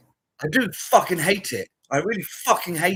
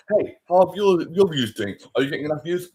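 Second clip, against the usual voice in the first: mock creator; 6 dB louder than usual. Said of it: "Talking like that".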